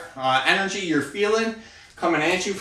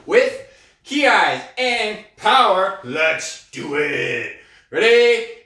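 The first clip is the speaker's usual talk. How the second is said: fired up; 3 semitones higher, 4 dB louder, much slower than usual. Real, not acted. Coach firing up the class.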